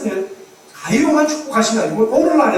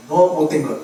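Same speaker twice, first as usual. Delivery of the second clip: mildly acted stern telling-off; mock reprimand, pressing on without letup; retold scolding. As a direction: imitate God rebuking a pastor, firm and insistent. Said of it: "막 야단 치셨다는 거예요".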